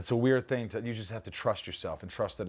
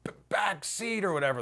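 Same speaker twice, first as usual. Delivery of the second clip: a hint of the character's stutter, pitched higher; imitating a stutter; 12 semitones higher than usual. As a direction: stumble on the first sounds like the character. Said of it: "he's got that stutter".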